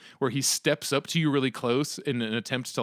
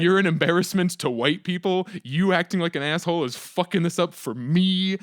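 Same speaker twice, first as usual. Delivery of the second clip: re-enacted heckling, pitched up; retold public telling-off, slightly raised voice; mild mock yell; 4 semitones higher, 3 dB louder than usual. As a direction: scold them as if yelling, without full volume. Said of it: "I get to yell".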